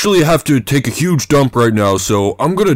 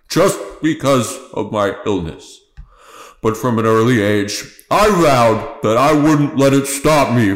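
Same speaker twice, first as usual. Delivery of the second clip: earnest, lightly voiced politician's address; heartfelt speech. Ignatius confessing his lycanthropy to the town, earnest. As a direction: confess it sincerely to the crowd.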